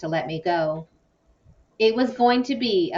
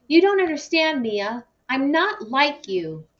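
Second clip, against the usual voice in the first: exploding; 8 semitones higher than usual. A narrator's reading. Jason exploding at Mia about his parents. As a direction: burst out in frustration. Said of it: "he exploded".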